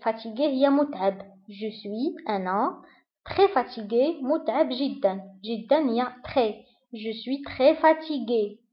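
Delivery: soft, tired murmur; acting worn out, voice dropping soft; weary and tired. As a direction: let the words sag with fatigue. Teaching the sentence "very tired.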